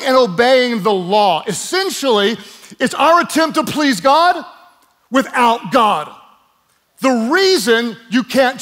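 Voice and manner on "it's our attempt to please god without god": louder and higher, hammering the point; emphatic shout. Real, not acted. Preacher shouting the point to the congregation, emphatic. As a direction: raise the voice to drive it home.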